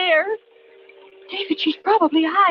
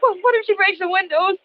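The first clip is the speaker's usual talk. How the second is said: frightened; 6 semitones higher than usual. Acted. Wife fears the cleaver killer.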